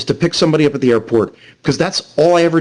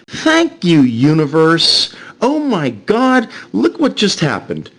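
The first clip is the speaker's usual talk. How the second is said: gleeful; 3 semitones higher, slower than usual. Retold or imitated. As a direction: savor it like a gift from the universe. Gleeful inner thought when stream froze.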